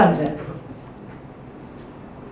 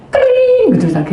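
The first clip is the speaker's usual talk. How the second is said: laughing; 4 dB louder than usual. Real, not acted. Laughing while telling the story.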